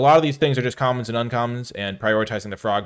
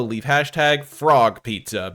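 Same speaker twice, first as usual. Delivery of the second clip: normal talking voice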